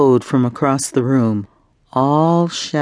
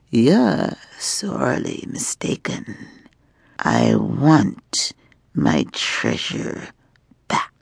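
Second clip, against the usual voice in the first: slow, soft, menacing voice of a dragon in human form; a dragon woman quietly demanding her treasure back; 3 dB quieter, slower than usual. Acted. Dragon woman to her captive, slow and menacing.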